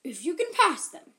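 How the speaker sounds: slow, loud, booming ogre. Acted. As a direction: lay down the tests like a huge ogre. Ogre sets her three tests.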